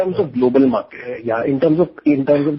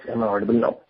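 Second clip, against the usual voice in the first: louder check that the line hears you; speaking louder; much faster than usual. Real, not acted. Caller asked to speak up on a conference call, speaking louder. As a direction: raise your voice to be heard. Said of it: "Can you speak a bit louder".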